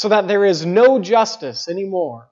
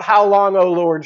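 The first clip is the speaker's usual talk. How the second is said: plaintive cry. Retold or imitated. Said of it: "He cries out".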